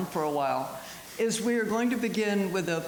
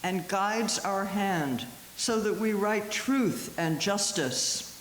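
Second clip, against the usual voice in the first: slow, measured poetry recital; poem reading; 3 semitones higher, slower than usual. Acted. Poet reads Miłosz's Incantation to an audience, measured. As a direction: read the verse slowly, with deliberate pauses.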